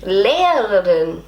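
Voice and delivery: very slow, drawn-out "Lehrerin"; effortful German pronunciation. Shown as a demonstration. Learner trying to sound properly German, slow attempt. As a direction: stretch "Lehrerin" carefully, copying a native model. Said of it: "I need to work on this word".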